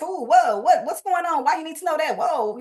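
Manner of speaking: startled, guarded pushback; defensive at being grilled. Retold or imitated. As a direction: back off, suspicious. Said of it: "you start becoming protective".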